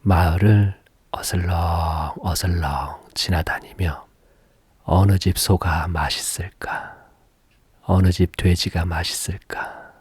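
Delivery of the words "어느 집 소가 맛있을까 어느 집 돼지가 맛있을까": a hint of a sneaky tiger, whispered. Tiger prowling the village for food, sly whisper. Tiger muttering about prey.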